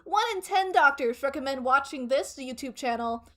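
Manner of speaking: upbeat TV commercial pitch; advertiser voice. Pretend. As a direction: sell it like a late-night ad. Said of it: "Best advertiser voice?".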